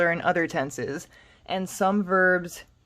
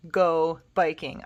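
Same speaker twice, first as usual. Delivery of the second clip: slower, careful repeat for learners. Shown as a demonstration. Teacher repeats the phrase slowly for students. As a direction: say it again slowly and clearly.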